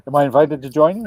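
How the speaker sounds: lively re-enactment, pushed up and out; retold eager question. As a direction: imitate your own hopeful asking. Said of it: "and I'm like".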